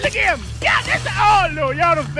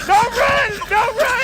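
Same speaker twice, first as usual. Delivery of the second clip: shouted call; 4 semitones higher than usual. Real, not acted. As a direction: call it out across the room. Cheering fighters, repeated call.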